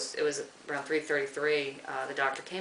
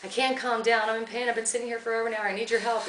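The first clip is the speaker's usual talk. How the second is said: retold pleading cry; 6 semitones higher than usual. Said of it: "still crying, still screaming".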